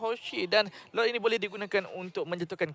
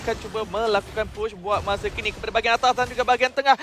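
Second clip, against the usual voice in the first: excited play-by-play; 6 semitones higher, 9 dB louder than usual. Acted. Co-caster builds hype on push.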